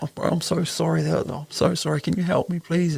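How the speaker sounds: mildly desperate appeal for help; retold pleading apology. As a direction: apologise urgently, lightly acting out the plea. Retelling apologising and begging the cop.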